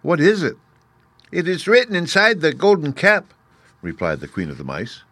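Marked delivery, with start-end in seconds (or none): 0.0-0.6 higher, louder surprised question; surprised little girl's query. A narrator's reading. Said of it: "answered Dorothy in surprise". 1.3-3.3 high, squeaky mouse voice; squeaky little ruler, pitched way up; Queen of the Mice. A narrator's reading. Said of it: "in her squeaky little voice".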